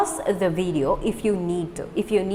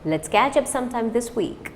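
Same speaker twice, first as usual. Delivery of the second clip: natural pace; faster; 3 semitones higher than usual. Shown as a demonstration. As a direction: say it normally. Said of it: "do it fast".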